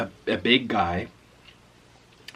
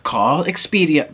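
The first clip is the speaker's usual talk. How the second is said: slow, higher mock-rude clerk; 4 semitones higher, 5 dB louder, slower than usual. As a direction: imitate a rude clerk dismissing a guest. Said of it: "the way he was saying it was so rude".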